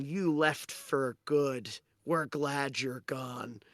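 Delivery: slow, measured rejection; lightly voiced villager, drawn out slowly; village member. Villager's reflection rejects Dusty, slow and measured. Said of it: "another member of your village saying".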